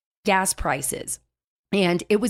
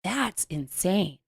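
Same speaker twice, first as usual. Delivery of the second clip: disbelief; 5 dB quieter, much slower than usual. Retold or imitated. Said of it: "I was just like".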